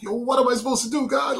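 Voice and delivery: high, exasperated plea; frustrated cry to God. Retold or imitated. Desperate man calling out to God, high and exasperated. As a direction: throw the question up at the sky.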